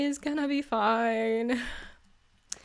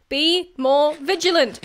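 scolding; 3 semitones higher, 5 dB louder than usual. Real, not acted. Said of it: "Be vigilant".

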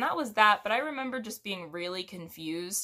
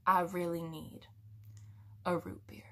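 weary plea; 2 semitones lower, 6 dB quieter than usual. Retold or imitated. Tired customer's plea.

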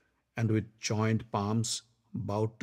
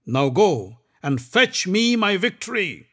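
louder, higher commanding prince; Duryodhan's voice; 7 semitones higher, 6 dB louder than usual. Acted. Duryodhan sending Karna to battle, commanding. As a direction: send him off to win.

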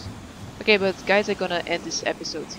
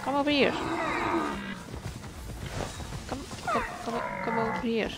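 coaxing; 5 semitones higher, 5 dB quieter than usual. Real, not acted. Coaxing deer to approach.

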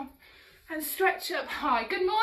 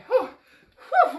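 puffed-out whew; 3 semitones higher, 7 dB louder than usual. Pretend. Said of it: "I'm working hard today".

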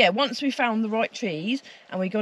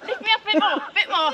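laughing; 7 semitones higher than usual. Real, not acted. Being lifted into hammock.

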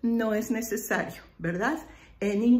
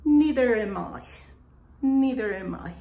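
elegant; 4 dB louder than usual. Shown as a demonstration. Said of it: "suena más elegante".

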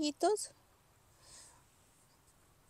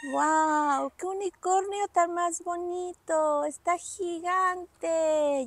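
wow, stretched out in awe; amazed; 4 semitones higher, 4 dB louder, slower than usual. Acted. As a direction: marvel at the giant unicorn. Amazed at unicorn toy. (asombro exagerado)

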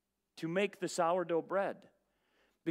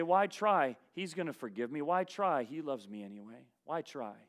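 mock careless believer; 5 semitones lower than usual. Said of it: "What we do is say".

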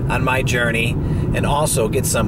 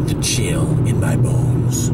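movie announcer voice; 4 semitones lower, slower than usual. Shown as a demonstration. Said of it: "I'm talking like a movie announcer".

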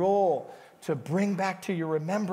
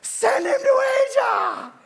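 much higher, loud, drawn-out call; prophetic shout; 7 dB louder than usual. Retold or imitated. A Filipino man proclaims over young Gary, shouting high. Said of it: "That little Filipino guy going".

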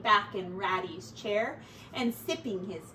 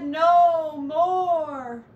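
mouse voice; 5 semitones higher, 9 dB louder than usual. Pretend.

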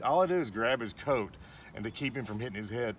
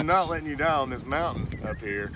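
louder, pitched up insistent vow; determined; 3 semitones higher, 6 dB louder than usual. Retold or imitated. Nephew retelling his vow to a collapsing uncle, loud and determined. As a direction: refuse to let him go.

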